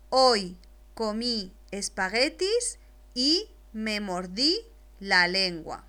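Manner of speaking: slow, clear reading of the whole sentence; read aloud slowly. Shown as a demonstration. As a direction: read it all through slowly once. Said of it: "voy a leer la primera oración completa". (lectura pausada de la oración entera)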